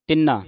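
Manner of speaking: ਤਿੰਨਾ with a held double n; doubled nasal. Shown as a demonstration. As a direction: hold the n in ਤਿੰਨਾ. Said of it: "ਇੱਥੇ ਟਿੱਪੀ ਲੱਗੀ ਹੈ". (ਤਿੰਨਾ, ਟਿੱਪੀ ਨਾਲ ਭਾਰਾ ਪਾਠ)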